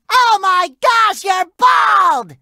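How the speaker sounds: high shocked cry of alarm; gasping shock at the bald head; shocked shout. Acted. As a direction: blurt it out, horrified.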